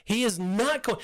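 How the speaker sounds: acted plea of disbelief; protesting to God. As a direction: argue back as if wrestling with God. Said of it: "wrestled with God where I was like".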